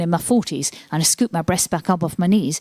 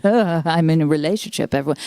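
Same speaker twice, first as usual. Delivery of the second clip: mock announcement. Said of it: "pretend to be comedian Rosie Wilby".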